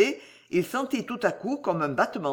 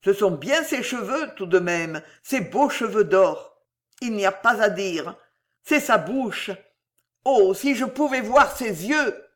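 a giant doubting his own mind, pressing on; agitated executioner fearing madness; frantic executioner. Acted. Claude sobs and laughs.

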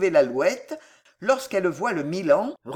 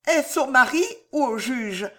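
high, fearful question; faltering; 6 semitones higher than usual. A narrator's reading. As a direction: falter it out timidly. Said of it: "balbutia madame de Villefort".

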